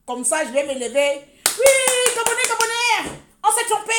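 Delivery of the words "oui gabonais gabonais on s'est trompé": very high, loud mock proclamation; mock cry. Calling to the Gabonese that we were wrong, mock cry. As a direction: shoot the pitch right up, calling out.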